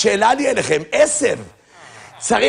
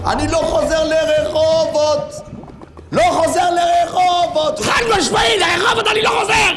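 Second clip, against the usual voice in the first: shouted refusal; 2 semitones higher, faster than usual. Acted. Refusing to return to Rehovot, shouting.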